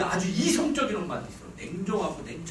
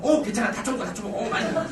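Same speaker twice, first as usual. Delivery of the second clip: mood-swing mom; 3 semitones higher, 5 dB louder than usual. Retold or imitated. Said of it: "막 이래요".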